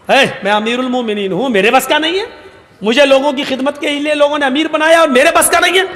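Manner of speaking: how dare you say I can't; indignant. Acted. Ruler offended by doubt.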